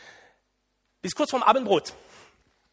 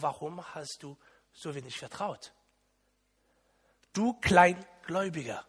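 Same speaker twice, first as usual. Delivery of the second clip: gentle; 3 semitones lower, 5 dB quieter than usual. Acted. Gentle Jesus after harsh parody.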